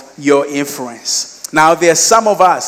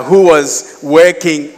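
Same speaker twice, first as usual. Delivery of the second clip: "working" slow and louder; stress on working; 5 dB louder, slower than usual. Real, not acted. Speaker underlining a detail for listeners, stress on "working". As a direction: lean heavily on "working". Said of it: "underline the word working".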